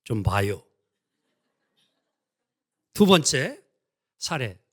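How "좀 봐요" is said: a hint of laid-back Chungcheong speech; Chungcheong accent. Pastor mimics a Chungcheong local for the congregation, mild Chungcheong accent. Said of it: "충청도".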